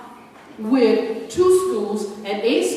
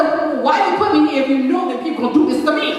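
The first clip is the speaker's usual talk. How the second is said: higher, rushed plea to God; indignant questioning of God; 4 semitones higher, much faster than usual. Retold or imitated. Woman questioning God why she was put here, indignant. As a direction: demand an answer in a fast, raised voice.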